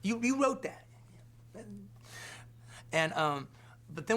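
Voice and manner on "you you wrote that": double-take, stunned; amazed question. Retold or imitated. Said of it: "I go".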